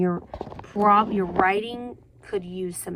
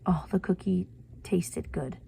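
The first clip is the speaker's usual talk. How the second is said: flat, unvoiced whisper of a dull sentence; a throwaway whisper of the bland version; bored whisper; 6 dB quieter than usual. Shown as a demonstration. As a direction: whisper it like it's nothing special. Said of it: "Can you tell the difference?".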